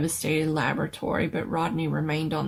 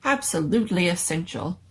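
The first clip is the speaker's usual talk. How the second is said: a put-upon scientist woken from sleep; the doctor, affronted at the noise; fussy old doctor. Acted. Fussy doctor voiced by narrator.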